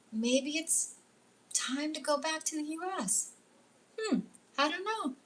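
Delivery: high, lilting thinking aloud; curious musing. Retold or imitated. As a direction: muse lightly, lifting the pitch on each option. Musing aloud over new possibilities.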